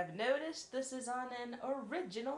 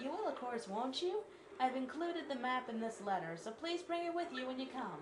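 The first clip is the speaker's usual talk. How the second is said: sweet princess read, pitched up; Peach voice; 3 semitones higher than usual. Acted. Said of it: "find the princess's voice again".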